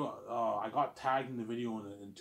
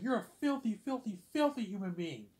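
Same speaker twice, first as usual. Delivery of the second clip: high, loud insult; imitated screaming teacher; mock teacher yelling; 10 semitones higher, 4 dB louder than usual. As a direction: hurl it like the raging teacher. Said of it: "She's like".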